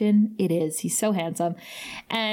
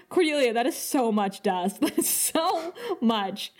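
laughing disbelief; 3 semitones higher than usual. Retold or imitated. Retelling her own amused reply.

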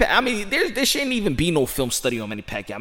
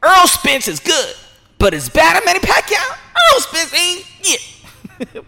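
high, slow mock barber voice; playful impression of the barber, higher; barber voice again; 12 semitones higher, 5 dB louder, slower than usual. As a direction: repeat the barber line for the new fight. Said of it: "now I'm gonna tell you like this".

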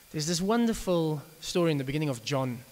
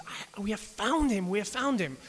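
excited friend; 5 semitones higher than usual. Retold or imitated. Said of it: "his very excited friend".

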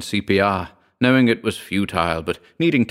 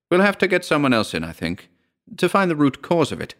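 put-on higher older woman's voice; auntie voice; 8 semitones higher than usual. A narrator's reading. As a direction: voice her higher and fretful.

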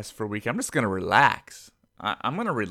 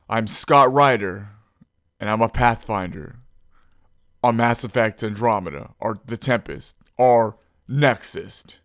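Scott Ryder; 3 semitones lower than usual. Acted. Podcaster trying to talk like Scott, light imitation. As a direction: lightly imitate a cool, chill hero voice. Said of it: "train me how to talk like Scott".

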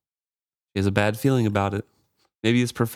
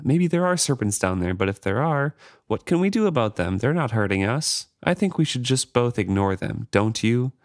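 cajoling. Acted. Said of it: "his voice takes on a cajoling tone as if she were a nervous child".

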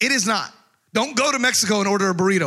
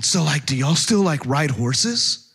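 slow, lower, dragged-out mock question; mock clueless friend; 4 semitones lower, slower than usual. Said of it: "My friends from Washington".

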